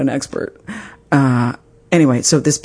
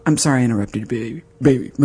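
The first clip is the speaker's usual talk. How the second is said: mock husband apology; 4 semitones lower, 4 dB quieter, faster than usual. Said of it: "the words came out".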